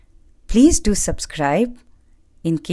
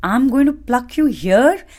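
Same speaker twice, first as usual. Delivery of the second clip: angry shout; 3 semitones higher, 3 dB louder than usual. Acted. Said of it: "shouted the man".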